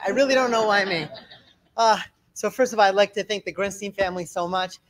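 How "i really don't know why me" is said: laughing through the words; amused, self-deprecating chuckle. Real, not acted. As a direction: chuckle as you admit it. Joking about being invited to speak.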